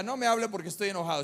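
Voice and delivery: fast, running the words together; quick, unweighted quote; wordy version, rattled off. Retold or imitated. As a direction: rattle through it as the version not said. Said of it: "No decía".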